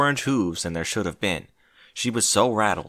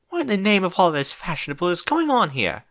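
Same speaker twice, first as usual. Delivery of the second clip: high, frantic screech; 8 semitones higher than usual. Acted. Rarity screeching in panic on the floor. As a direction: cry out in dramatic alarm. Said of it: "she screeched".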